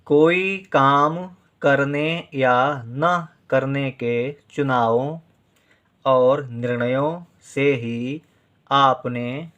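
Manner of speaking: slow, deliberate reading aloud for students to write; measured dictation voice. Acted. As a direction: read each phrase slowly so they can write along. Reads dictation sentence slowly.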